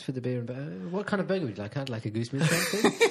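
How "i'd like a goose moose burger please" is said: laughing mock order.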